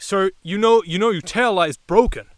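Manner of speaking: police officer. Retold or imitated. Officer tells driver about the tail light, put-on cop voice. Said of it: "He's like".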